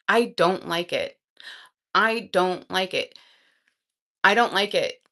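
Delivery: "I don't like it" said slowly, each word weighted; "I don't like it" as a slow, insistent declaration; emphatic dislike. Real, not acted. Emphatic rant against romanization.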